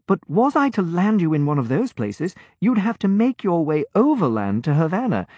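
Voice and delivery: put-on an obliging young sailor, easy and sure; cheerful young lieutenant. A narrator's reading. Lieutenant explains landing.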